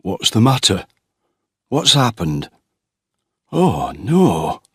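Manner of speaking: father finding his son on the ground, alarmed. A narrator's reading. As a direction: rush in asking, then dismay. Father arriving at accident.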